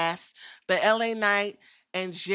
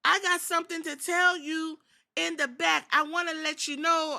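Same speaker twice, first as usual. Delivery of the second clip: IYO SKY impression; 8 semitones higher than usual. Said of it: "E O said".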